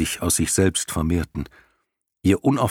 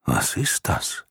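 grinding rumbling rock voice; 4 semitones lower, slower than usual. Acted. Lion asks in wonder.

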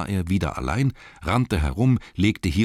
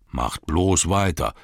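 growl; 4 dB louder, slower than usual. Acted. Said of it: "knurrte der Kellermeister".

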